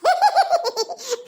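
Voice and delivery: high-pitched burst of giggles; mocking giggle. Daughters laugh at mother's unlit stove, mocking giggle. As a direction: giggle helplessly at someone's blunder.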